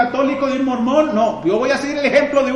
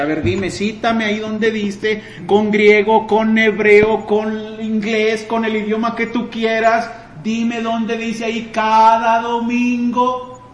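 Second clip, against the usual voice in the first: mocking priest's challenge; slower than usual. Preacher imitating a priest's taunting challenge, slow sing-song. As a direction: stretch each word like a smug challenge. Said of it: "Y le hacía así con ese tono".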